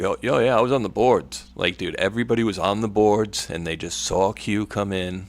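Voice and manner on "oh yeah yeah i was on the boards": mock bragging. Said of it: "everybody tries to tell you how they were on the boards".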